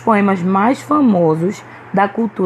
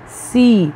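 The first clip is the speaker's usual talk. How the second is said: "Cidade" in separate syllables, strong da; stress on penultimate syllable; 2 semitones higher than usual. Shown as a demonstration. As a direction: break "Cidade" into Ci... da... de, leaning on da. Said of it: "pronunciamos com mais força a penúltima". ("Cidade" silabado, com força em da)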